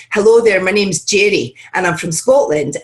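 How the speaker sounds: friendly Scottish introduction; demonstrated Scottish accent, cheery hello. Shown as a demonstration. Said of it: "my spark for my Scottish accent, I'd say".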